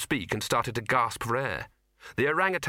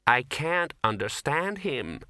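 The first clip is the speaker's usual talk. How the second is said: wailing; 3 semitones higher, slower than usual. Acted. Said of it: "wailed Ginger".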